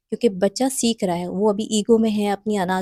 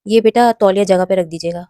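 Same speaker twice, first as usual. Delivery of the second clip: polite and respectful; 5 dB louder than usual. Shown as a demonstration. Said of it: "بلکہ اسے بولیں".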